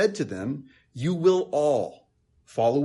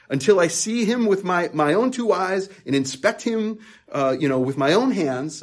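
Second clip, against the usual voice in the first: louder, higher and passionate; sharp, emphatic Thomas; 5 semitones higher, 5 dB louder than usual. Retold or imitated. Thomas to the disciples, sharp and emphatic. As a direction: insist on seeing it for yourself. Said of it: "sounds sharp, very emphatic, passionate".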